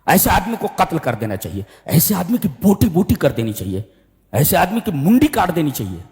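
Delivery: mildly heated, each demand rising then falling; retold student outrage. Students demand punishment for the offender, moderately angry retelling. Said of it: "طلبہ سب غصے میں آ گئے".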